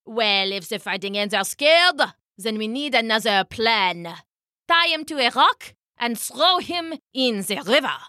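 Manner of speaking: lightly voiced cold king; a hint of a villainous king; scheming king. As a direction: order it like a ruthless ruler.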